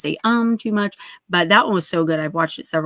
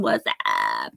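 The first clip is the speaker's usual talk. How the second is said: a botched, deep, drawn-out catchphrase; attempted catchphrase greeting. Shown as a demonstration. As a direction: drop very low into a drawn-out croak. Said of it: "I can't even do it".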